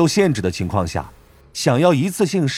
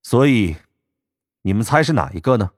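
smirking. Acted. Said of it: "唐默嘴角勾起".

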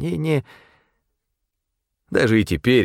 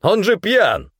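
1 calling out; 9 semitones higher, slower than usual. A narrator's reading. Manager calling out.

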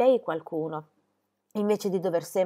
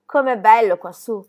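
loud, happy exclamation; delighted exclamation; 8 dB louder than usual. A narrator's reading. Girl to her little goat on the mountain, delighted exclamation. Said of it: "esclamò".

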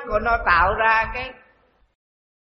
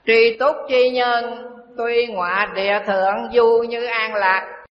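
scripture recitation. Shown as a demonstration. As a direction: intone the sutra line slowly and solemnly. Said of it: "Đức Phật dạy tri túc".

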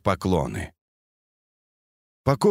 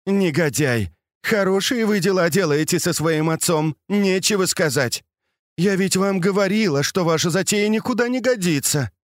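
a mild scolding, higher pitched; a lady scolds the young man, mildly raised and higher; 8 semitones higher than usual. A narrator's reading. Lady scolds her stepson over his scheme, mildly indignant. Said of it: "и только ругала Дзяжуна".

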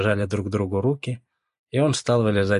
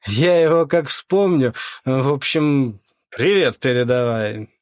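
louder, higher, still laughing it off; loud amused; 5 semitones higher, 5 dB louder, slower than usual. Acted. Lyokha loudly recalling their old pal. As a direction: boom it out, amused.

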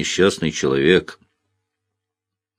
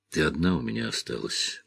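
low, soft mutter; quiet low murmur of a lonely man; 7 semitones lower, 9 dB quieter than usual. A narrator's reading. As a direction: mumble it down to her. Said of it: "бормотал он".

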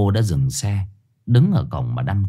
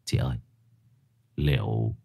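impatient; 9 semitones lower, 7 dB quieter than usual. A narrator's reading. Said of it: "thằng Tưởng sốt ruột".

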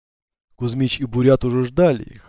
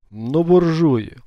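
slow, higher-pitched spiteful grumble; angry through teeth; 5 semitones higher, 3 dB louder, much slower than usual. A narrator's reading. Chilim curses the car owners after it won't start, slow and spiteful. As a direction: draw it out with contempt. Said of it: "зло процедил Чилим".

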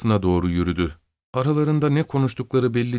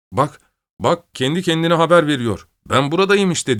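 mocking joke; 7 semitones higher, 4 dB louder than usual. A narrator's reading. Someone in crowd mocks the dog.

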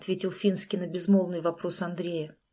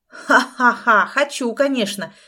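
loud slow menacing cackle, then the answer; mocking laugh; 3 semitones higher, 8 dB louder than usual. Villain laughs at Andrey's question, loud and mocking. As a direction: laugh him off, louder.

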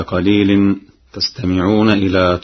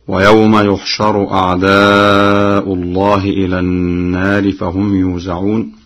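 Quran recitation. Shown as a demonstration. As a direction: recite it with measured tajweed. Hafs reading shown first. (تلاوة مجودة بحفص)

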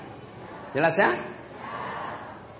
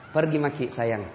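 softer, lower loving wife; gentle wife sending her husband off; tender wife; 7 semitones lower, 7 dB quieter than usual. Retold or imitated. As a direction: soothe him as he leaves. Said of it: "Karena bilang apa".

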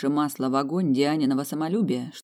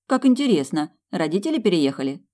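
character voice; 4 semitones higher, 5 dB louder than usual. Acted. Character reacts in dialogue.

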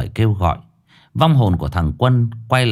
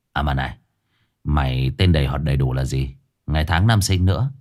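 lower, curt question; Dương Đông, gruff; 5 semitones lower than usual. Acted. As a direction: demand it briskly. Dương Đông dặn vong.

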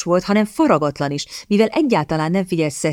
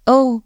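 sighed oh; 7 semitones higher, 4 dB louder than usual. A narrator's reading. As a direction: let out a wistful little sigh. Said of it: "sóhajtott fel Miss Talbot".

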